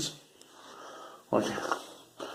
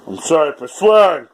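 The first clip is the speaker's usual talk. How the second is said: louder, higher repeat of the apology; loud mock apology; 4 semitones higher, 7 dB louder than usual. Shown as a demonstration. Vlogger shouting an apology to viewers, loud and high. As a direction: belt the apology out over-the-top.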